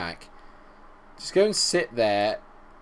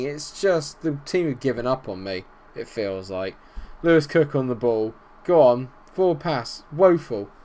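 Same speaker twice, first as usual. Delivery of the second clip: ordinary delivery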